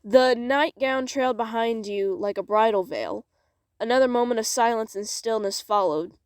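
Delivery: measured, expressive storytelling; story narration. Acted. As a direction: read it aloud like a dramatic tale. Reads story aloud.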